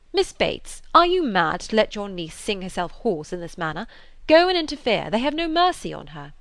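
mildly angry gentleman urging her; angry rebuke. Acted. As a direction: scold her for letting it go on. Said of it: "Mister Knightley grew angry".

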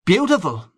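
BEAUTIFUL pitched high then falling, savoured; high, drawn-over "Beautiful", weighing the word; lingering on the word. A narrator's reading. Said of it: "pausing on the word".

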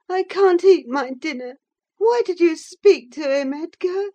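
Cathy upset, scolding Edgar; distressed girl. Acted. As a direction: plead in distress over the flogging. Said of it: "she expostulated".

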